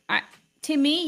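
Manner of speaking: usual speaking voice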